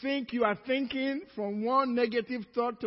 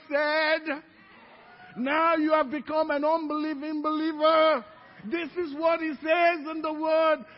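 raised, ringing rebuke; impassioned challenge; 6 semitones higher, 7 dB louder than usual. Acted. Daughter reproving her unbelieving mama, loud and impassioned. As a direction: confront with loud, preaching conviction.

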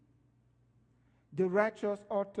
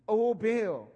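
mock cry; 3 semitones higher, 6 dB louder than usual. Mocking Baal prophets again.

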